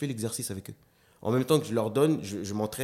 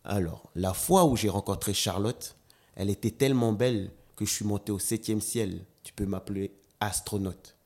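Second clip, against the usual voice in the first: slam demonstration. Shown as a demonstration. On va faire une démonstration.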